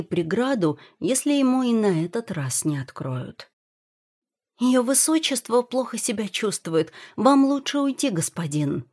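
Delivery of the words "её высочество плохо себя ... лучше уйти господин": high-pitched eunuch, lightly voiced; squeaky servant voice. A narrator's reading. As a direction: pipe up in a higher voice, dropping at the end. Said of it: "пискнули за дверью". (слегка писклявый голос)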